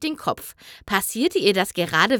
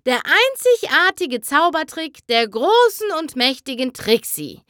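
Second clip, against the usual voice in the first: showy stage announcement, higher; grand announcer; 5 semitones higher, 3 dB louder than usual. Acted. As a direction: puff up the big name. Magician announces her trick. (prahlerische Ansage)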